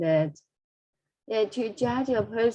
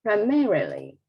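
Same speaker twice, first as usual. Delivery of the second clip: "primarily" with MAR raised and a long fall after; highlighted stress. Shown as a demonstration. Teacher modelling the word once more, highlighted stress. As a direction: punch the second syllable of "primarily". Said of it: "I will highlight the stress here".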